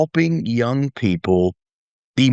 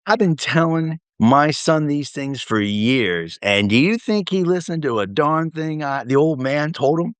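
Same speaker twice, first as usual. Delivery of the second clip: higher, drawn-out fatherly complaint; retold exasperated father; 5 semitones higher than usual. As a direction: play the old man griping about his son. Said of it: "Coy was like".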